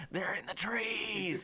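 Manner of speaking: high, strained mock war-movie yell; panicked battlefield cry. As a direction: cry a drawn-out warning like a soldier under fire. Acted cry in combat flashback.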